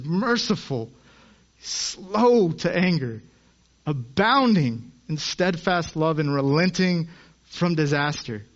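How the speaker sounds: slow, savoring each phrase; reverent and slow. Shown as a demonstration. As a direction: dwell on God's mercy. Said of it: "That is the God we serve".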